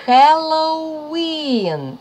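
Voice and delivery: Halloween with a long, high, loud-held WEEN; stress on last syllable. Shown as a demonstration. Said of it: "наголос маємо на останньому складі".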